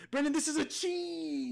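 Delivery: high gleeful announcement; excited reveal. Real, not acted. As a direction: gloat as you reveal it. Host reveals answer.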